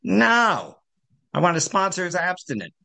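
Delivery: a firm no in a lightly put-on Midwest accent; imitating a Midwest accent. Recovering woman refusing a sponsor who isn't abstinent, in a Midwest accent. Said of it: "she said in her Midwest accent".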